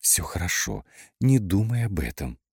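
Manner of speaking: lightly soothing meditation-tape voice; meditation announcer. A narrator's reading. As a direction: reassure like a recorded meditation guide. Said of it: "голосом диктора с медитативной записи". (успокаивающе, как диктор медитации)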